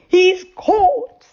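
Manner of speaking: high, bright triumph; cheering the catch; joyful. A narrator's reading. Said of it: "said Moonface joyfully".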